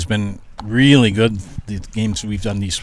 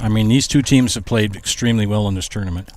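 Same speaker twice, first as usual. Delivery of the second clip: crunching fries. Real, not acted. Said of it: "Don't mind me crunching on French fries".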